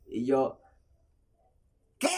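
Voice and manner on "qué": baffled what. Retold or imitated. Cannot understand the garbled yelling.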